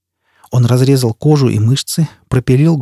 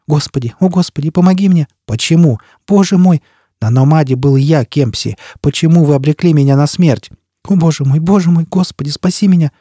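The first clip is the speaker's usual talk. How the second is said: panicked pleading; 3 semitones higher than usual. Acted. Tortured man begging god.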